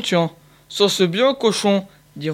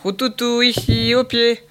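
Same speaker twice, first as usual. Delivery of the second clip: higher, calling shout to the dog; hunter shouting; 6 semitones higher, 3 dB louder than usual. A narrator's reading. Hunter calling his dog from afar, a raised mock shout. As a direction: call the dog back like a hunter. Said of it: "hurle le chasseur".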